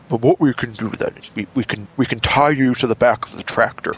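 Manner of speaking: lightly voiced English accent, pleased; chirpy English gent with a scheme. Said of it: "one of his ideas was".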